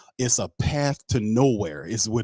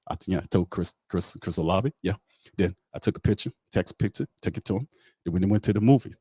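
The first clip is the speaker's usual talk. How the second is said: rambling guy impression. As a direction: ramble on like you'll never stop. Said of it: "that's how the guy talks".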